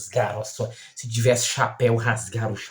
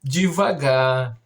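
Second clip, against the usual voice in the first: a teacher's drawn-out reminder; slow repeated instruction; 3 dB louder, much slower than usual. Retold or imitated. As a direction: stretch each word out slowly.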